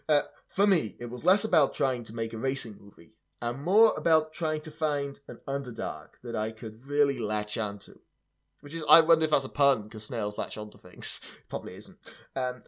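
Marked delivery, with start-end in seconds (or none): 0.5-8.0 put-on terrible American accent. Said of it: "I'm gonna do a terrible American accent for it".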